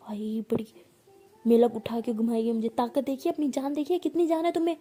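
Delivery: loud mocking rant, rising to a yell; wife mocks her partner's weakness in loud anger; angry scolding. Loud mocking angry rant. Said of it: "ऐसे बहुत गुस्सा करी होती है".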